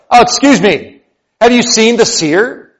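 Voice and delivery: lightly voiced polite traveller; a hint of a puzzled young Saul; Saul asking. Saul asking the stranger for the seer, lightly voiced.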